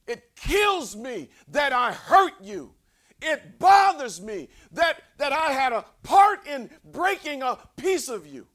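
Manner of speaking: loud, slow heartfelt cry; impassioned shout. Retold or imitated. Preacher voicing a truly sorry brother, loud slow cry. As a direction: shout the apology from the gut.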